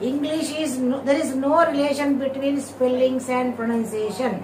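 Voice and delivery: very slow, every word spelled out for the class; slow deliberate teacher reading; careful slow English. Shown as a demonstration. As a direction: read it slowly so students catch each sound. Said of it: "మీరు pronunciation correct గా చూడండి".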